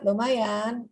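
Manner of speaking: flat, unenthusiastic lumayan; low-energy reply. Shown as a demonstration. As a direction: answer with no spark. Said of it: "Itu energinya rendah". (jawaban lesu tanpa semangat)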